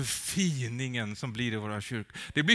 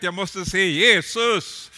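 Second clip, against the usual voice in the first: higher, louder, slow yearning cry; longing cry; 6 semitones higher, 11 dB louder, slower than usual. Retold or imitated. Zacchaeus in the tree longs to see Jesus, loud cry.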